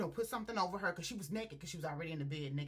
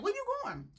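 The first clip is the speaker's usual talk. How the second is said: high, loud imitated cry; plaintive protest; 6 dB louder, faster than usual. Woman calling after her man as he leaves, plaintive. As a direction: call after him in a pitched-up voice.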